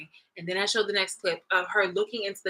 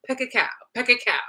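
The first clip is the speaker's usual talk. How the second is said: punchy, higher-pitched gun noises; imitated gunfire; 4 semitones higher than usual. God working through Karen, imitated gunfire. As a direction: pop out two mock gun bursts.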